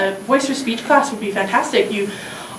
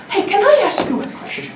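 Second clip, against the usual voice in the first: put-on higher Indian-accented question; acted Indian accent, pitched up; 7 semitones higher than usual. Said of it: "there is an accent".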